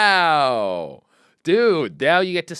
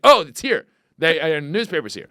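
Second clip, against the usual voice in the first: high, bright imitation of a pleased kid; mock happy voice; 4 semitones higher, 5 dB louder than usual. Recalling childhood, imitating himself excited about the newspaper. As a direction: act delighted the paper came. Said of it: "you'd be like".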